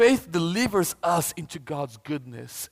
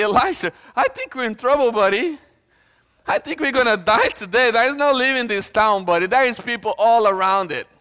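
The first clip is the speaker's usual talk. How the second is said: mildly panicked servant, pitched up; alarmed servant; 4 semitones higher than usual. Acted. Preacher voicing the servant warning Elisha, mildly alarmed. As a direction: play up a servant's worry. Frightened servant voiced in story.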